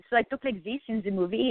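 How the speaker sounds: light French-accented English. Shown as a demonstration. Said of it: "like, this with a French accent".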